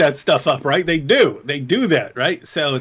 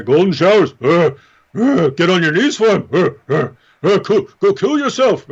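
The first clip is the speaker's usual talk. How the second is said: mock quote; 3 dB louder than usual. Mocking the apologist's words.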